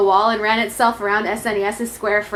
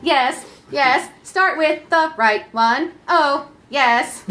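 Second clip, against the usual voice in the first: mock moaning; 2 semitones higher, much slower than usual. Console moaning parody.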